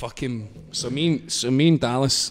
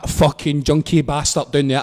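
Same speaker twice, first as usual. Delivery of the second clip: louder, indignant re-enacted abuse; raised-voice mock rant; retold shouting; 5 dB louder than usual. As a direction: call out an insult in a story. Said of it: "I'm shouting to".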